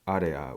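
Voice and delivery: areya, a quick blend of uh and ah; areya sound. Shown as a demonstration. Teacher demonstrating the Korean areya vowel, low in the chest. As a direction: say areya with a short vowel between uh and ah. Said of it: "The approximation of this sound".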